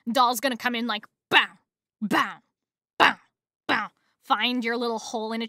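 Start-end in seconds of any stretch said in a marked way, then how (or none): 1.3-3.9 short punchy "bow" hits; staccato mock impact noises; imitated punch sounds. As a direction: spit out punch sound effects, one by one.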